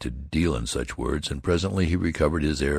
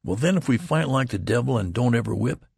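higher, decisive declaration; grand and decisive; 8 semitones higher than usual. A narrator's reading. Youth blaming the general, grandly and decisively. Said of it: "said the youth grandly and decisively".

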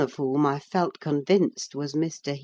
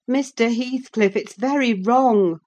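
higher, louder pleading reproach; a nurse scolding a dangerous man; anxious nurse Nelly; 8 semitones higher, 5 dB louder than usual. A narrator's reading. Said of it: "I continued".

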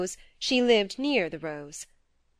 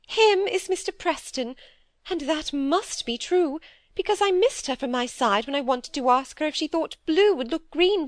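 higher, fretful little-sister voice; timid younger sister; 8 semitones higher than usual. Acted. Phoebe fearfully confessing to her sister, higher anxious pleading.

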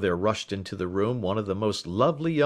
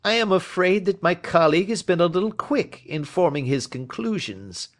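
higher, louder hearty inspector; Lestrade voice; 10 semitones higher, 5 dB louder than usual. A narrator's reading. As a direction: bluff and sure of himself, pitched up and loud. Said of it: "he said".

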